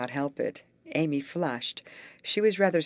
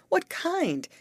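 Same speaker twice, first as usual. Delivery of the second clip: anxious question; 5 dB louder than usual. A narrator's reading. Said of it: "inquired Amy".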